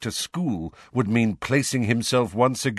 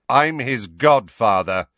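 much louder, slow insistence; louder than ever; 3 semitones higher, 7 dB louder than usual. A narrator's reading. Sirius insists to Snape he is Harry's godfather, loud. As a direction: insist on your right to be there. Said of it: "louder than ever".

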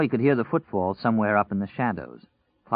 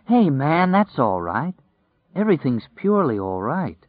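swooping, lilting reassurance; soothing; 6 semitones higher, 4 dB louder than usual. A narrator's reading. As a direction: coax someone out of crying. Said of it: "Flagg soothed".

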